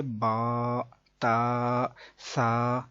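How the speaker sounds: با، تا، سا said the Arabic way; Arabic reading of the letters; Arabic letter sounds. Shown as a demonstration. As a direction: read با not بے. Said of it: "عربی لہجے کے مطابق".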